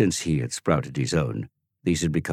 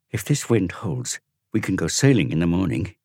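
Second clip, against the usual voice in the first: announcing; 2 semitones higher than usual. Acted. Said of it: "he announced".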